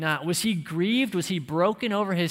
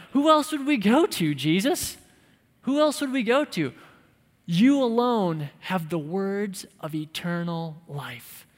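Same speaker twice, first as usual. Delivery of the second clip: impulsive blurt; 3 semitones higher, 4 dB louder than usual. Retold or imitated. Peter to Jesus, blurting out higher and louder. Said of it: "Simon Peter just blurts out".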